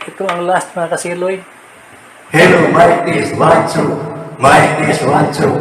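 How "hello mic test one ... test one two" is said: chorus reverb alien effect. Shown as a demonstration. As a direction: sound like an alien on mic. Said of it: "para akong alien".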